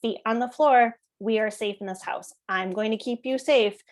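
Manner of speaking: firm, even limit-setting voice; calm but firm. Shown as a demonstration. Parent lifting a child off the coffee table, calm but firm. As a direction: set the limit without escalating. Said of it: "So firm, but making sure that the tone isn't escalated".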